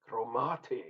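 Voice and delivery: "Cromarty" in a rough try at a local accent, fuller first vowel; attempted local accent. Shown as a demonstration. Beer reviewer guessing at the brewery's name, attempted local accent. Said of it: "it's not that accent".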